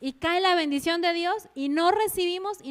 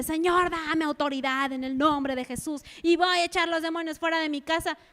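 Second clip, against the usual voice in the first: fervent prayer. Acted. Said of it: "diciéndole".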